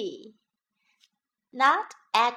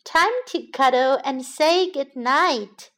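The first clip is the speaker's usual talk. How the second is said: loving bedtime mother voice; storybook mother; 2 semitones higher, 5 dB louder than usual. Acted. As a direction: say it to a child at bedtime.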